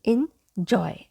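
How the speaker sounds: "enjoy" slowly split as in-joy; correct "enjoy". Shown as a demonstration. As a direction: break "enjoy" in two, short I first. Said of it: "So it's".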